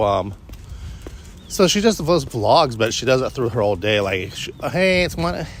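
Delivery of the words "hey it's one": high nasal imitation of a vlogger; chirpy nasal girl voice. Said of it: "She has this nasal little voice".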